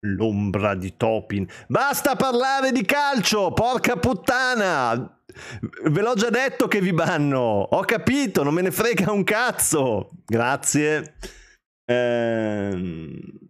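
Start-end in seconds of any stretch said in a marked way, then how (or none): 1.7-5.2 sudden high angry outburst; explosive italian cursing. Real, not acted. Streamer snaps at chat. 5.8-10.1 exasperated telling-off, raised pitch; annoyed scolding. Real, not acted. Streamer scolds chat.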